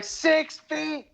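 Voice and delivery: put-on high, shrill-free falsetto old lady. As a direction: squeak it like a prim old lady. Old lady warning him off.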